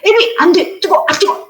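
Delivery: put-on sharp, high mother's warning to a toddler; a mother shouting no at her toddler; scolding mother. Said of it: "뭐 이렇게 하면은".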